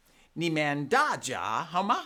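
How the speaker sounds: 你们大家好吗 said slowly, tone by tone; 用普通话慢慢示范; Mandarin greeting. Shown as a demonstration. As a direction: model 你们大家好吗 for the kids. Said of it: "which sounds something like".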